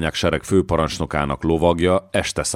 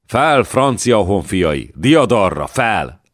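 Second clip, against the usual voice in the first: battle cry; 4 semitones higher, 4 dB louder, slower than usual. Acted. Joan urges troops forward.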